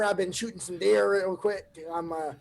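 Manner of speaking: a hint of a rural American hunter voice, only loosely done; redneck woods farmer. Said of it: "redneck woods farmer".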